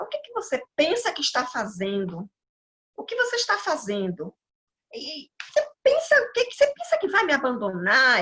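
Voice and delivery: mildly angry voice, spiking very high on "E você pensa"; angry demand. Retold or imitated. The furious figure in her dream shaking her, a retold mock rebuke. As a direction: act out the dream figure's rebuke, half-earnest. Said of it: "muito irado comigo".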